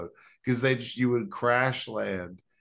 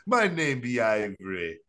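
mock Jamaican accent. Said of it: "crazy Jamaican accent".

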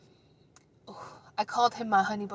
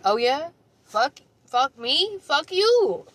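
mock tough guy; 6 semitones higher, 5 dB louder, slower than usual. Quoted guy's retort.

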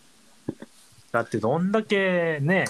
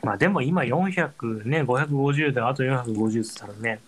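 mouth full; 4 semitones lower than usual. Real, not acted. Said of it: "物を食べながら喋る".

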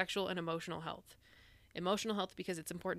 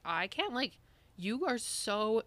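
retold exasperation; 4 semitones higher, 3 dB louder, slower than usual.

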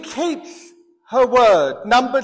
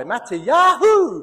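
drawn-out cowboy yell of "Mattiyahu"; cowboy call; slower than usual. Pretend. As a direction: holler it like a cowboy. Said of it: "Sound like a cowboy".

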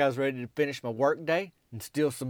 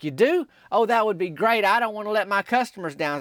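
higher and louder, eager and delighted; excited; 7 semitones higher, 4 dB louder than usual. Retold or imitated. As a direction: gush with excitement. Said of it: "and she's excited".

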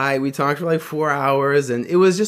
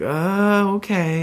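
higher, hesitant mock girl; a shy little uh, okay, pitched up; imitating her hesitation; 8 semitones higher, much slower than usual. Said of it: "she's like".

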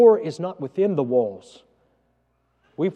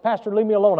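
retold snap; 5 semitones higher, 3 dB louder, faster than usual. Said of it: "I snapped off to him".

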